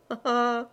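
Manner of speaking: a short, read-out "ah, ah" laugh; lightly voiced chuckle of a jolly monk; mock hearty laugh. A narrator's reading. Lay brother Bruno laughing at the tricked knight, a light read chuckle. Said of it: "l'expansive hilarité du frère".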